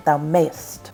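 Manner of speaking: "thou mayest" with "mayest" squeezed into one syllable, "mayst". Shown as a demonstration. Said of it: "we should say it as one syllable".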